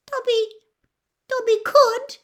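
high elf voice, halting; doubtful. Acted. Dobby considers criticising old masters, doubtful squeak. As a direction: squeak it hesitantly, with a pause. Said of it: "he said doubtfully".

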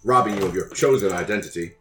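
polite, measured fixer voice; smooth courteous schemer. Acted. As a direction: speak like a sly, courteous broker. The speaker speaks in character.

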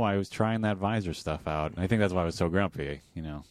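low, quiet, sleepy voice; drowsy half-mumbled lines; tired mumble. Acted. Tired grumpy character.

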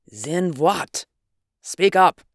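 loud impatient order; impatient demand. Acted. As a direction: snap at him to go on. Mudson demands Northwood continue.

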